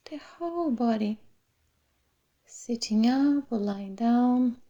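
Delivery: unhurried meditation voice with long pauses; guided meditation. Real, not acted. Meditation teacher settling the class into the body, calm guided meditation. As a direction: guide them gently through the body, phrase by phrase.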